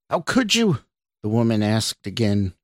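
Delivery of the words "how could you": high cry, a shout held back in volume; shouted reproach. A narrator's reading. Woman accuses Scott yet again, contained high shout. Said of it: "this time a loud shout".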